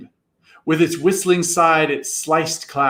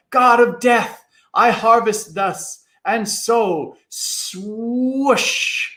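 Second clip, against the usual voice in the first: booming god; 7 semitones higher, much slower than usual. A narrator's reading. Samhain proclaims himself to the boys, grand and booming. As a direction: announce yourself as the god of death. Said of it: "Samhain declares himself".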